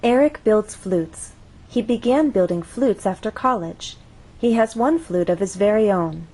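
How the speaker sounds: certain, finished statements falling at "flutes", "college" and "own"; falling intonation. Shown as a demonstration. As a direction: let the pitch fall on "flutes", "college", "own". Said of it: "an example of falling intonation".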